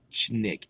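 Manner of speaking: "schnick" with a hushing sh onset; sh before nick. Shown as a demonstration. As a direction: hold the sh, then land "schnick". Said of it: "and then sh".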